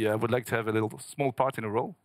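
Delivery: lightly put-on French accent in English; a hint of a French caller trying his English. A fan calling Adam Sandler's agency, in a light French accent. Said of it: "Tu l'as parlé avec son accent français?".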